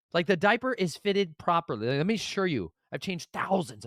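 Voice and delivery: high-pitched incredulous rant; exasperated disbelief. Retold or imitated. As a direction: plead your case in a high, strained pitch. Exasperated retelling of diaper failure.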